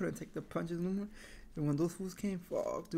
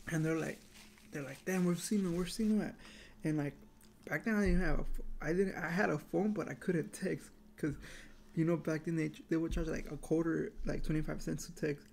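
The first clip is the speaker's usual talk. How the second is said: talking between bites; chewing while speaking; mouth partly full. Real, not acted. Seen 2: Bite taken at -1.0; he talks holding a loaded spoon.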